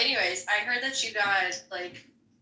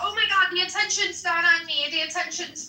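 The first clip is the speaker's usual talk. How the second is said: mock whiny voice; 5 semitones higher than usual. Mocking whiny attention seeker.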